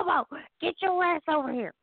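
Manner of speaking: high, fast mock yell at the cat; retold yell, quick and high-pitched. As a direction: call the cat in sharply, half-yelling. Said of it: "I'm yelling at my cat".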